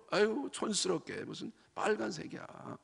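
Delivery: sneering complainer. Retold or imitated. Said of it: "빨강색을 하고 있으면은요".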